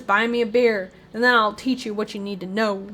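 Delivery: lightly voiced Southern old soak; Western or Southern accent. Old soak bargains for a beer, light Southern accent. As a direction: put on a touch of Western twang. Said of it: "I don't know why I think he's Western".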